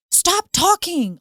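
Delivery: high, slow, loud parental order; yelled command. Acted. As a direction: yell it at the kids, drawn out. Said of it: "Stop yelling".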